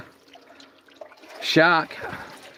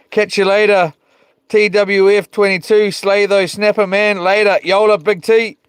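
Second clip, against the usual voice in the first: hyped shout-outs; 5 semitones higher, 4 dB louder than usual. Real, not acted. Loud shout-outs to viewers.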